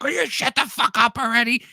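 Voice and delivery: high, exasperated father's yell; hammed-up father yelling; mock angry dad. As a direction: snap it like a dad at his limit. Imitating his dad yelling.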